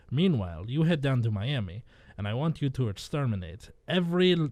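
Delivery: put-on slipping Spanish accent, sounds Russian. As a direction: drug lord in a poor Spanish accent. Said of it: "I'm hearing it too".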